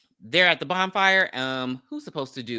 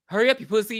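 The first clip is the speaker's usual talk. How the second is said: heckling; 7 semitones higher, 3 dB louder, faster than usual. Retold or imitated. Heckling the hesitant rider in a retelling.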